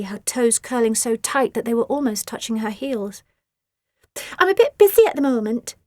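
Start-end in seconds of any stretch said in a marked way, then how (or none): 4.4-5.7 higher, louder breezy brush-off; airy and unbothered; dismissive. A narrator's reading. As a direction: Asti brushing off her sister. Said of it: "said Asti".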